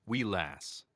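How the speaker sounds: short Scottish-accented phrase. Shown as a demonstration. Showing fans a very Scottish word, Scottish accent. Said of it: "that's a very Scottish word".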